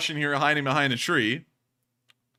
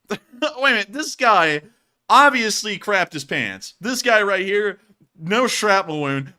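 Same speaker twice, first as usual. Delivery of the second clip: excited amusement; 5 semitones higher, 6 dB louder than usual. Real, not acted. Commentator gleefully pointing out a fleeing soldier, loud excited glee. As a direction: savour each word, delighted.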